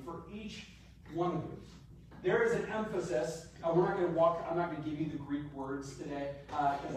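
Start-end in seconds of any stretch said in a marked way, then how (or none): 0.0-1.6 single out "each" with a rise, then pause; stress on each. Shown as a demonstration. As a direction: raise "each", then finish "one of you" evenly. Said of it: "on the word each".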